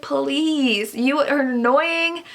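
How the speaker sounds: drawn-out, dismissive comeback; mock retort, slow and fed up; exasperated retort. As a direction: stretch it out, thoroughly annoyed. Mock retort to the book's hero.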